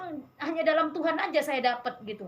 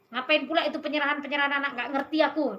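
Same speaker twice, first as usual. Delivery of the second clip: quick, slightly raised retort; irritated dismissal; 3 semitones higher, 4 dB louder, faster than usual. Retold or imitated. Husband objecting to the child dedication, irritated dismissal. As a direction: brush the idea off in a fast, mildly annoyed burst.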